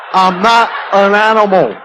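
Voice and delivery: lightly voiced pleading, stress on not; a hint of the Elephant Man insisting; mock Elephant Man plea. Watching the Elephant Man on TV, lightly mocking plea.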